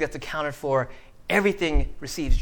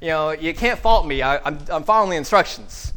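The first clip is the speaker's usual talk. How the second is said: big show; 6 dB louder than usual. Pretend. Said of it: "you make a big show out of it".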